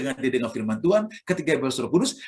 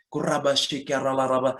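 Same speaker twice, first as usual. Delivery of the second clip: mature tongues; 3 semitones lower than usual. Shown as a demonstration. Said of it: "mungkin lebih dewasa".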